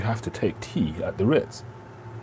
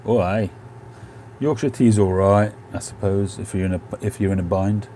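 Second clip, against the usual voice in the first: put-on northern lad accent. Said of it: "Lancashire lad".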